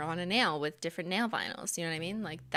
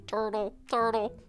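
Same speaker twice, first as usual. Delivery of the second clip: goofy turtle voice climbing ever higher; Wordle turtle mascot; 4 semitones higher than usual. Acted. Mascot inviting players to Wordle, goofy turtle voice. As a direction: start near usual pitch and rise into a squeaky cartoon turtle. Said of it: "he talks like this".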